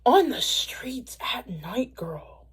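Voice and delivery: slow, scandalized whisper; hushed slow whisper trailing off. Acted. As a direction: lean in and whisper it like gossip. Scandalized aside about night streets.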